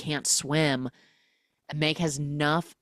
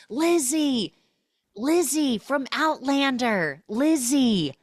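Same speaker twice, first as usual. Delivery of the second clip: high loud calling out a name; mock screaming; 10 semitones higher, 5 dB louder, slower than usual. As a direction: shout for her across the water, half-hammed. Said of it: "And she's screaming".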